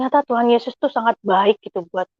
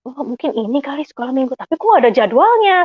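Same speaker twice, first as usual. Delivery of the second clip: mild puzzlement, voice rising higher; puzzled; 4 semitones higher than usual. Retold or imitated. Finding no Sunday school schedule, puzzled. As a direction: wonder aloud, pitched up. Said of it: "Saya bingung".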